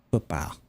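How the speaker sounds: "Football" with a broad, rounded last vowel; exaggerated accent vowel. Shown as a demonstration. Showing there is still an "ah" without any R, broad-vowelled "Football". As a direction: say "Football" with a regional "ah". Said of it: "still gonna say the ah".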